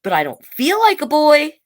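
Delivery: put-on child pleading with mother. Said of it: "Bailey said".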